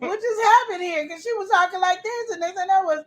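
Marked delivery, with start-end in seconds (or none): 0.0-1.1 high laughing disbelief; laughing quote. Retold or imitated. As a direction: ask it through laughter. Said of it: "I looked at her like".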